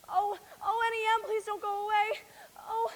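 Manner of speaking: crying out, begging; desperate sobbing plea. Acted. Dorothy begging her aunt in the crystal, sobbing. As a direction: plead through tears.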